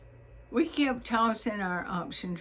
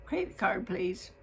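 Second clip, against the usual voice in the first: Credit card said crisp and falling, businesslike; polite clerk's routine request; fine office voice. Retold or imitated. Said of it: "in her fine office voice".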